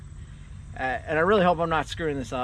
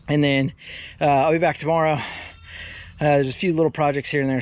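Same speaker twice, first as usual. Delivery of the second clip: panting between words; breathless, rushed from working; out of breath; 3 dB louder than usual. Real, not acted. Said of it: "Sorry, I'm out of breath".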